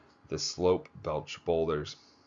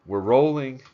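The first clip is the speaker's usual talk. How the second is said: sharp, impatient call louder and higher; 6 semitones higher, 8 dB louder than usual. Acted. Director snaps at silent climber on camera, impatient call. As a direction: director losing patience with Peak's silence, impatient. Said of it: "J R said impatiently".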